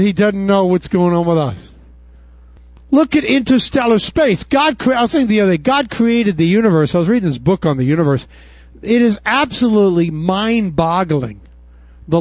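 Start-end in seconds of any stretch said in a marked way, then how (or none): none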